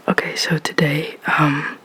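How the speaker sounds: gentle, soft-spoken ASMR voice; quiet voiced words, close and gentle. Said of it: "I'm gonna do a sort of, like, mixed whisper, soft-spoken video".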